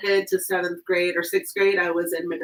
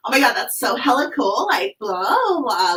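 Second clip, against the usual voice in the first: a light, higher mock Valley girl gush; 5 semitones higher, 4 dB louder than usual. Recalling how cool kids talked back then, mock Valley girl. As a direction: playfully imitate a bubbly teen. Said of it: "why I talk like a Valley girl sometimes".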